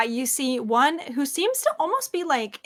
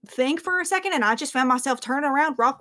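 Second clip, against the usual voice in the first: rambling, animated squire eyewitness; lightly voiced puzzled squire; 2 semitones higher than usual. Squire recounts mumbling creature's magic, lightly voiced and puzzled. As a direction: lightly play a squire baffled by what happened. Game master plays squire Ara.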